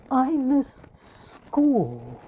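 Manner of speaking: slow, wistful sigh of a line; heartbroken. Acted. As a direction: sound heartbroken missing school. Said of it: "looked almost heartbroken".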